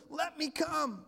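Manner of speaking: bold request. Retold or imitated. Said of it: "He has the guts to say to Jesus".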